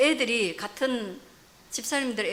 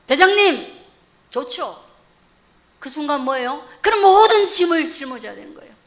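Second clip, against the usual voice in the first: punchy sermon questions, swelling and easing; emphatic preacher bursts; forceful preaching; 5 semitones higher, 11 dB louder than usual. Real, not acted. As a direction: challenge the congregation with raised voice.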